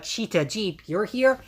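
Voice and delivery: surprised, rising high on the question; a startled question that jumps up. Retold or imitated. Shoma surprised to find Shita and Jeep there, pitch jumps up.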